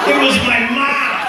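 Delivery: laughing loudly through the punchline. Real, not acted. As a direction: crack up at the reveal.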